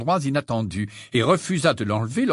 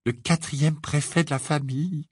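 tender, proud mother; a touch of motherly fondness; brimming with affection; 3 semitones higher than usual. A narrator's reading. Mother ruffling her son's hair, full of affection. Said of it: "d'un ton débordant d'affection".

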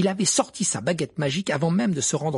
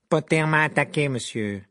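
accusing pupil; 3 dB louder than usual. A narrator's reading. Malfoy accuses Potter to teacher.

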